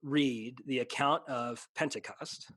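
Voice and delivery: slow, emphatic preacher's cadence; preaching. Real, not acted. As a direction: build the case like a preacher, stretching key words. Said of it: "you're gonna get me preaching now".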